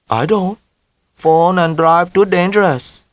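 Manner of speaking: put-on mother in a heavy Vietnamese accent, high. A narrator's reading.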